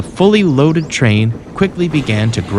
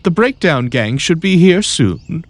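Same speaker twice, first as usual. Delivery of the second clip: reassuring; 6 semitones higher than usual. A narrator's reading. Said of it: "reassured Daisy".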